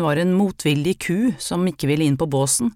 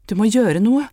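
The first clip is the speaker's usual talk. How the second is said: desperate shout, louder and higher; 5 semitones higher, 5 dB louder than usual. Acted. Mother in labour shouting at the midwife in panic. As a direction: cry out in panic. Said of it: "ropte hun".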